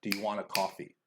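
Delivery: "want" and "coffee" carry the beat, small words tucked between; stress-timed beats. Shown as a demonstration. Teacher repeating the timed example, stress-timed. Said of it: "this is stress timing".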